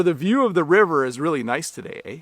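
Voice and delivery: statement closed with a questioning "eh". Shown as a demonstration. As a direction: end on "eh", asking the listener to agree. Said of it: "adding a because I want you to agree".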